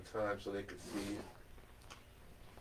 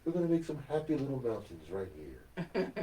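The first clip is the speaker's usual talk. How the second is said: lightly put-on painting host; easygoing instruction in mild impression; Bob Ross. Playing the TV painter for Jennifer, light impression. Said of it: "I gotta work on that voice".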